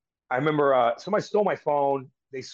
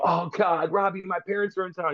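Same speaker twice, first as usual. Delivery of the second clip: higher-pitched retold protest to the coach; dismayed plea; 6 semitones higher than usual. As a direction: plead in dismay, acting out the memory. Acts out his dismayed phone plea.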